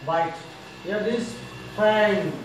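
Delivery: normal talking voice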